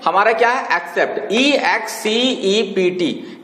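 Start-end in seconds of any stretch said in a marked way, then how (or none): 1.3-3.4 spelling it out. Shown as a demonstration. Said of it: "spelling को ध्यान में रखिएगा".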